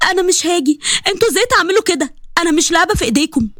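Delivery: put-on a girl lashing out at her family; angry refusal. Sally refuses, upset at family. (رفض غاضب بصوت أعلى)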